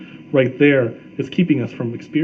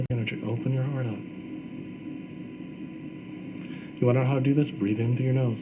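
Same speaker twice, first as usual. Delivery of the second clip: guided meditation; 8 dB quieter, faster than usual. Shown as a demonstration. Guides a short breathing exercise.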